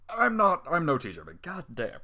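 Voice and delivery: plain reading voice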